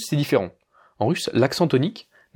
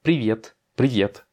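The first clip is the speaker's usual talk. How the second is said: "Привет" with ВЕТ stressed, said twice; stress on final yé; slower than usual. Shown as a demonstration. Teacher modelling a friendly hello, stress on ВЕТ in "Привет". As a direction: stress the last syllable of "привет". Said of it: "J'accentue sur le yé".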